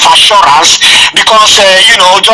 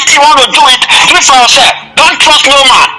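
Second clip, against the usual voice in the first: retold insistent warning, pitched higher; vociferous; 4 semitones higher than usual. Retelling the minister's warning about trust, vociferous. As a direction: imitate a vehement warning in a raised pitch. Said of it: "He was too vociferous".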